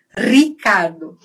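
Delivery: "Ricardo" with a long trilled first R; vibrating R. Shown as a demonstration. Teacher contrasts it with throat sound, trilled "Ricardo". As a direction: roll the R of "Ricardo" on the tongue. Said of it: "No, vibrante".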